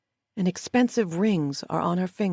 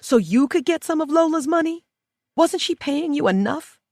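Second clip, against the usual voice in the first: much higher and louder, near shrieking; furious shout; 11 semitones higher, 4 dB louder than usual. Acted. Inmate shouting at her former housekeeper about the money, furious. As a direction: hurl the accusation at her.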